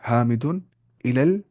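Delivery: حامد الی المسجد spoken slowly word by word. Shown as a demonstration. Teacher counting the words for students, slow. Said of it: "چار لفظ".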